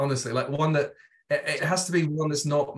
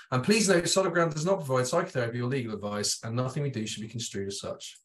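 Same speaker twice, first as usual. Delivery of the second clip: ad read. Shown as a demonstration. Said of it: "I'm just gonna sail through it".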